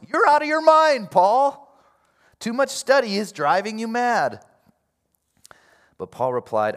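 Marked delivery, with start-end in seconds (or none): 0.1-4.4 high, exasperated shout; loud exclamation. Acted. Festus interrupting Paul's defense, exclaiming in a loud voice. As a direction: burst out at full voice, can't take it anymore. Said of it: "He exclaimed in a loud voice".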